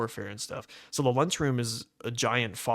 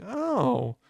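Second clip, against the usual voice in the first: mock kid voice; much slower than usual. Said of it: "every other thirteen-year-old in the room was like".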